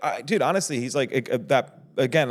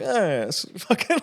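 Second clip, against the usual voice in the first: surfer dude; 4 semitones higher, slower than usual. Retold or imitated. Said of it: "a surfer mentality".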